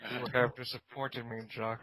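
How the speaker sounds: lightly voiced British actor impression; disappointed, measured celebrity voice, dropping off on the name; Alan Rickman. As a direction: try a mildly theatrical British disapproval. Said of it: "it's gonna sound like Alan Rickman".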